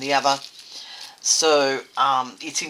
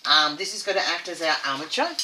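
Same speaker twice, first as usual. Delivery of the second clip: talking with something in mouth; mouth full. Real, not acted. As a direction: speak around something in your mouth. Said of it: "I've got something in my mouth".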